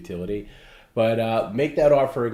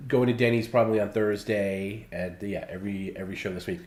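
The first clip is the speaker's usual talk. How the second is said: nasal, blocked-nose voice; speaking through a stuffy, nasal voice; nasally voice. Real, not acted. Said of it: "excuse me for my nasally voice".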